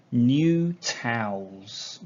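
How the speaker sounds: drawn out slowly, loving it; slow and savouring. Real, not acted. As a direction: stretch it out slowly. Savouring the smell.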